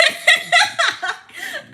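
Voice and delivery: high, loud laugh; burst of laughter. Real, not acted. Laughing at her own Teen Titans hook, high and loud. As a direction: crack up after singing.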